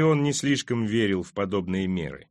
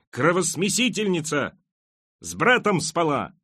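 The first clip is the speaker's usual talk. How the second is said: wailing scream; 6 semitones higher than usual. A narrator's reading. Maddened mother screams abuse at the queen, high wail. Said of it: "и она завопила".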